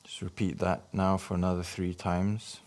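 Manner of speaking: measured meditation guidance with long pauses for breathing; guided meditation. Acted. Guiding listeners to breathe in healing light, measured meditation voice. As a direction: lead each breath in short phrases, leaving space.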